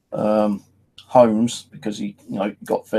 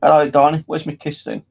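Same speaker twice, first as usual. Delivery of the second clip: put-on higher, louder playful old man calling for a kiss; cheeky old man greeting; 5 semitones higher, 3 dB louder than usual. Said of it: "He always used to say".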